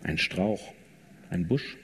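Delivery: ordinary delivery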